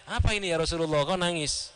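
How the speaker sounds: courteous question at an easy pitch; mild, mannerly acted query; polite asking. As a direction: ask respectfully, as a student would. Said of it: "dengan sopan ya, dengan adabnya".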